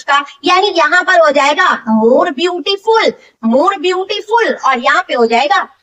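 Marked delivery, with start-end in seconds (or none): 2.0-4.5 slow spelled-out phrase. Shown as a demonstration. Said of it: "यूज़ कर लेते हैं more".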